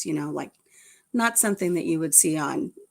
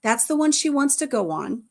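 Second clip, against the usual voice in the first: excited inner voice; 3 semitones higher, 4 dB louder than usual. Retold or imitated. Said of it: "It's like".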